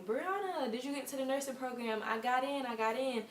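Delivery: bubbly call-in as if shouting good news; excited friends. Retold or imitated. Friends phoning her with admission news, high excited mock voice. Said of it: "My friends were calling me".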